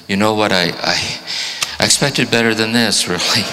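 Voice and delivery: a touch of a scolding mentor; disappointed director. Retold or imitated. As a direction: play the let-down teacher at the deathbed. Dying man's director scolds him.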